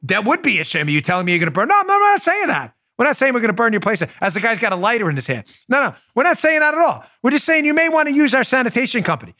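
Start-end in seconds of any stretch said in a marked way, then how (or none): 1.7-9.3 high hammed-up wiseguy protest; mock mobster, all smiles; mobster denial. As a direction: fake innocence from a thug. Mobster denies, lighter in hand.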